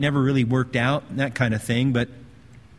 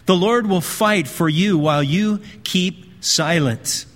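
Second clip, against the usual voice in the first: firm, measured Bible reading; scripture reading. Acted. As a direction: read the verse out with solemn emphasis. Reads scripture aloud to congregation.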